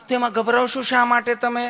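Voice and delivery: a lightly voiced, lovingly polite nurse; mild honeyed nurse voice; sweet nurse. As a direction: ask like a nurse who is all sweetness. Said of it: "તમે કેટલું પ્રેમથી પૂછો છો".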